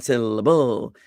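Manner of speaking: "syllable" as SIL-uh-BOOL; wrong stress on BO. Shown as a demonstration. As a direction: give the final "bull" of "syllable" a false emphasis. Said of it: "The bull doesn't get the emphasis".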